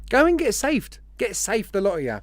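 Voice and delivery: put-on Australian accent. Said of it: "Obviously with an Australian accent".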